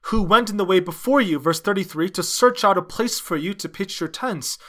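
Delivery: usual speaking voice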